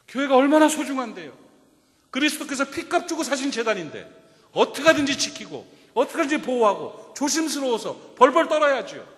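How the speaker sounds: loud, high, impassioned preaching; preaching at full force. Acted. Preacher's climax.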